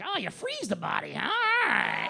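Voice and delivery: lightly imitated wife picking up a tip; mock eager discovery. Imitates wife noting murder tips.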